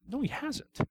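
emphatic denial. Real, not acted. Rejecting the man's claim of forgiveness.

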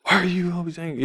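a hint of aggression, rattled off fast; mock aggressive. Shown as a demonstration. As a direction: toss off a hurried accusing question. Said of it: "not in an aggressive manner at all".

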